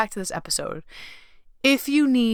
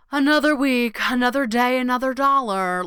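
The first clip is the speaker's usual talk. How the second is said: autopilot drone; 4 semitones higher than usual. Retold or imitated. Mocking herself on weekly autopilot, higher droning list. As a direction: reel off the routine like a tired robot. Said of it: "we so often go unconscious and we're like".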